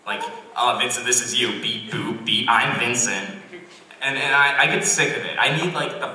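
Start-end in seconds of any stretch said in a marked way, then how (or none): 0.6-3.3 lightly voiced robot imitation; slightly mechanical teasing impression; mock robot. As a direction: tease with a hint of robot voice. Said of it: "you act like a robot".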